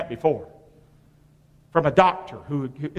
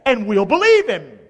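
Scripture reading; 2 semitones higher than usual. Acted. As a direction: read the verses out to the congregation, weighting key words. Reads Scripture aloud to congregation.

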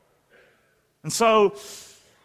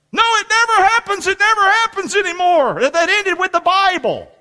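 mock skeptic; 8 semitones higher than usual. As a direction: play the scoffer who says it never happens. Voicing the skeptic camp.

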